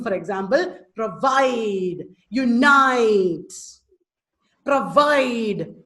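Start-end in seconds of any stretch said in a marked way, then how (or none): 1.0-3.5 proVIDE, uNITE with a drawn-out second syllable; iambic stress. Shown as a demonstration. Teacher gives the class iamb examples, second syllable stressed in provide, unite. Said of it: "Unstressed followed by stressed is I am". 4.6-5.8 proVIDE, long weight on the second syllable; stress on VIDE. Shown as a demonstration. Teacher shows the class an iamb, stressing vide in provide. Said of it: "Vide is stressed".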